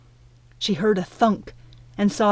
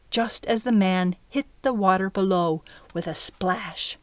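plain reading voice

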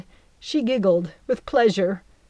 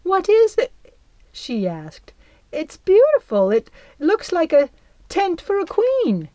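high, louder wonder-struck voice; delighted fairy; 10 semitones higher, 5 dB louder than usual. Acted. Belle admires the golden net, high and delighted.

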